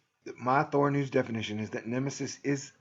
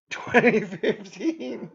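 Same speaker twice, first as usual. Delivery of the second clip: laughing; 8 semitones higher, 6 dB louder, much slower than usual. Real, not acted. Giggling at his own joke.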